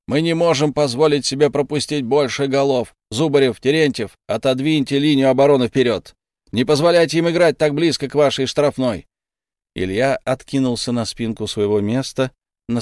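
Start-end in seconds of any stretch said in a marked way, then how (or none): 0.1-9.1 gym coach. Acted. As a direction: coach yelling at defenders. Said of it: "заорал тренер во всю глотку".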